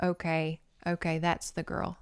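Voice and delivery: quiet, hushed quote of Mavis; half-whispered, a bit awed; hushed retelling. Retold or imitated. Mavis nervously confiding to friends, hushed.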